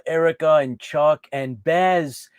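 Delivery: usual speaking voice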